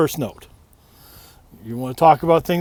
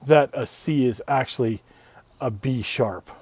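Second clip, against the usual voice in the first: mock patronizing teacher. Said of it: "I'm supposed to stand in front of you and go".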